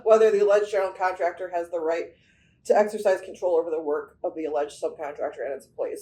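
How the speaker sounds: laughing through a numb tongue. Real, not acted. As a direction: talk past a tongue numb from hot sauce. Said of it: "It's numb".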